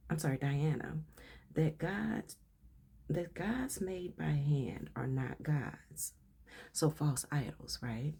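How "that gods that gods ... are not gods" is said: slow, measured read-aloud voice. Real, not acted. Reader shares a reference entry with listeners, slow read-aloud. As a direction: read it out slowly and deliberately.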